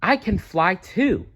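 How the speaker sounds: bursting with happy discovery; delighted baby bat. A narrator's reading. Stellaluna's thought continues.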